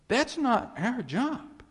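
That's not our job high and loud with not punched; loud insistence. Acted. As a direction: proclaim it high and strong. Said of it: "I can't get any more clear".

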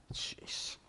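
unvoiced "Jeez" rising to a high, incredulous question; mock-baffled Pilate; a hint of an exasperated governor; Pilate's bewildered reply. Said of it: "Pilate's going".

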